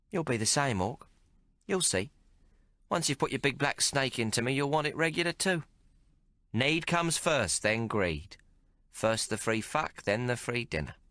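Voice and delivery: a streetwise barmaid teasing the hero; Maggie's voice. Acted. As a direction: play her worldly and mocking. Narrator voices Maggie, cynical whore.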